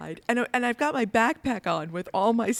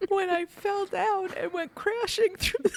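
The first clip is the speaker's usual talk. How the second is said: laughing through it; 11 semitones higher than usual. Real, not acted. Laughing while telling fall.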